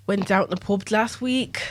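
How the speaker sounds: lightly done Irish accent. Shown as a demonstration. Friend showing off an Irish accent on request, lightly Irish. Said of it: "I think I can do a good Irish one".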